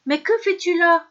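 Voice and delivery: startled at seeing the fisherman; exclaiming. A narrator's reading. Theseus spotting his old host, surprised cry. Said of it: "s'écria Thésée".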